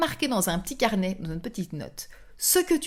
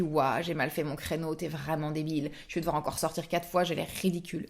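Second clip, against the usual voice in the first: petite voix intérieure; 4 semitones lower, 6 dB quieter than usual. Pretend. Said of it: "Cette petite voix qui te dit".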